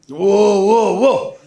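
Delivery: loud, whooped "wow, wow, wow"; mock amazement. Preacher reacts to speaking before Bulgarians, mock amazed whooping. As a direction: hoot it out in exaggerated awe.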